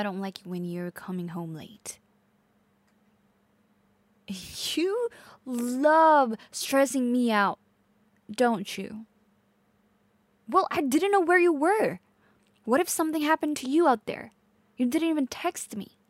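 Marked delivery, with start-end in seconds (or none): 4.3-16.0 higher, raised, worried anger; upset outburst. Acted. Girlfriend scolding late partner who didn't text, upset outburst. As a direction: protest with rising alarm. Acted quarrel over lateness.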